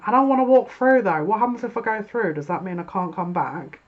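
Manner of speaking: a stalling person begging not to go; whiny hesitant querent. Pretend. Querent stalling at the portal, whiny and hesitant. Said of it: "sat at the portal, going".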